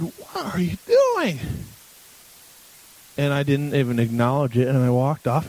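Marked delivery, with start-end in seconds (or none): 0.0-1.4 a slow, much higher mock mom voice; light impression of his mother; imitating mom. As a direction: play mom walking in, slow and high. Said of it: "She said".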